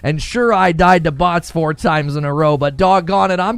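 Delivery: a folksy player rolling up his sleeves; mock stubborn determination; defiant gamer voice.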